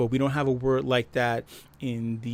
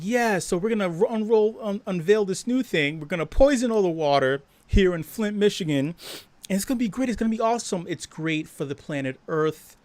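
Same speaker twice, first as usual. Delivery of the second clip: lightly voiced, higher upbeat politician; smug politician; 4 semitones higher than usual. Politician announcing poisoned Flint water, mock cheerful. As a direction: pitch it like a cheesy announcement. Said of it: "That motherfucker could be like".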